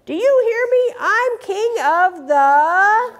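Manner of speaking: high, drawn-out bragging showoff voice; boastful Big Bark. Acted. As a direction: crow it over everyone like a bully king.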